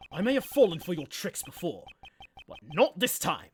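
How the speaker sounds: firm prosecutor, accusing; firm accusation. Acted. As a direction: deliver the verdict with resolve. S0 voices Edgeworth accusing.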